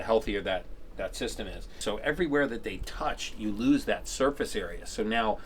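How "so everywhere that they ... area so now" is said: numb mouth, talking through gauze; mouth full. Real, not acted. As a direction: speak around gauze with a numb tongue.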